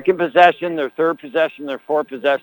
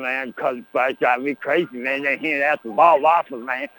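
a lightly lowered folksy hype-man voice; Cousin Clyde character; 3 semitones lower than usual. Acted. Cousin Clyde joking with the broadcaster on air, lightly lowered voice. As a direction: play a swaggering local character, a touch lower.

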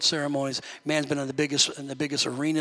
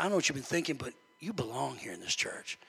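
gentle reassurance; 7 dB quieter than usual. Retold or imitated. Pastor telling a young man he belongs, soft reassurance.

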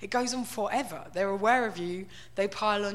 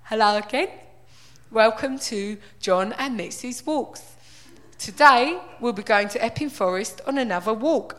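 mock cheery vlogger; 7 dB louder than usual. Imitating the middle-aged dog-walker greeting viewers in a loud, hammed-up host voice. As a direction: open a homely dog-walk vlog.

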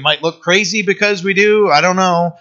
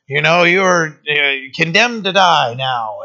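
mock stern parent; slower than usual. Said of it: "too stern and harsh with them".

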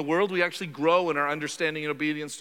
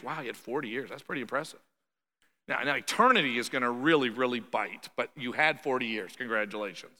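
dry mock congratulation; 4 semitones lower than usual. Sarcastic imagined address to rich man.

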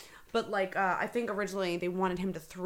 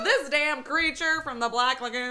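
slow, louder, laughing tagline; mock closing catchphrase; 5 semitones higher, 5 dB louder, slower than usual. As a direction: deliver it as a hammed-up sitcom ending. Acting out a sitcom-style closing line.

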